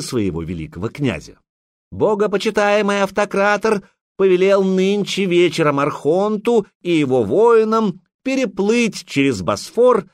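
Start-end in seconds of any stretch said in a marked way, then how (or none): 1.9-10.0 loud, high, rushed blurt. A narrator's reading. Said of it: "сходу выпалил евнух".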